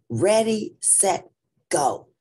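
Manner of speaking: high, loud start call; announcer starting the race, loud; starter's yell. Acted. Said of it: "the man with the microphone yelled".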